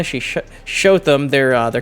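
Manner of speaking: nervous stutter on the first word. Real, not acted. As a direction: trip over the opening sound. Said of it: "He made me stutter there".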